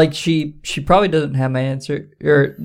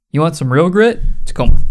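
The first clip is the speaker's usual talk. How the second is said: punchy sell; 3 semitones higher, 4 dB louder, faster than usual. Acted. Hyping Tacoma.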